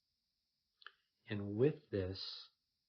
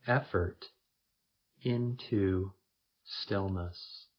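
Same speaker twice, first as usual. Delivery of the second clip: first-person meditation, slightly louder, in spaced phrases; guided meditation; 6 dB louder than usual. Acted. Leading listeners into effortless stillness, guided meditation voice. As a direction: say each phrase firmly, leaving long pauses.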